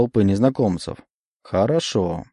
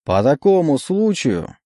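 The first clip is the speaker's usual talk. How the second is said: emcee; 4 semitones higher, slower than usual. Acted. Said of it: "продолжал конферансье".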